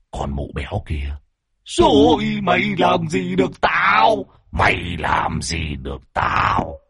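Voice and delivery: slow, drawn-out gloating creature voice; slow sinister taunt; mocking demon. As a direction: sneer slowly at the fat witch. Demon mocks Lan.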